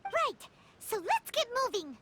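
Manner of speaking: bright, eager jump in pitch; keen and ready to go. Acted. Companion eager to set off after the attacker, excited.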